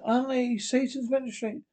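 witch voice. Acted. Witch Hester mocking the judge, high eerie witch voice. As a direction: sneer at him like a ghostly witch.

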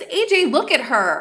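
mild whiny appeal; whining. Acted. Inessa appealing to Ajax against Lumine, whining. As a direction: tattle to him with a little whine. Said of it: "Inessa starts to whine".

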